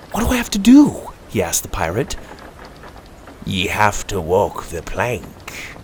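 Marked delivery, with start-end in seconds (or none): 0.1-1.1 put-on eager boy voice. A narrator's reading. 3.5-5.8 slow, soft cold pirate threat. A narrator's reading. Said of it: "the scallywag said coldly".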